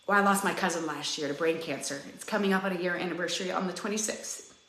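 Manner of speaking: holding back tears while naming the loss; getting emotional. Real, not acted. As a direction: voice dropping low as grief rises. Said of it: "now I'm getting emotional".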